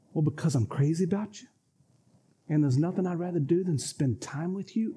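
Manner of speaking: mean every word to her; lightly voiced husband, tender and sincere; sincere loving answer. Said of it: "rewind, rewind".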